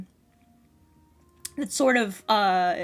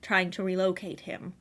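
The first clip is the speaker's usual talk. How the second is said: a timid stranger overwhelmed by noise; lightly voiced anxious wanderer; shy stammering outsider. Player voices a shy Underdark character.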